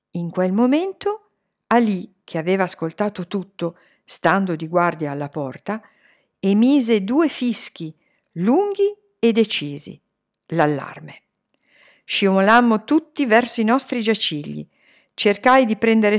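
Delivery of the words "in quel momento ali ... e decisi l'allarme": usual speaking voice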